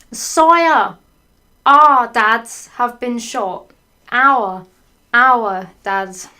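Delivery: loud, drawn-out dramatic pleading; dramatic plea. Acted. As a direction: overact the grief. Dramatic reading of quoted plea.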